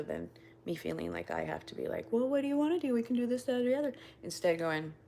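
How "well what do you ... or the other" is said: high, loud anxious-to-please voice; over-accommodating. Acted. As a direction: pitch it up and rattle off options, pushing to accommodate. Acts out feeling obliged to accommodate.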